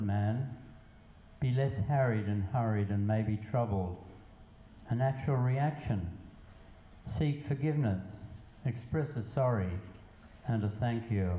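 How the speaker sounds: measured poetry reading with pauses between lines; spoken verse, evenly paced; poem recitation. Acted. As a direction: recite it line by line, letting each phrase land.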